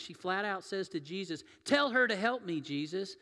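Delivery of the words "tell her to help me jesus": mock demand. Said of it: "she demands".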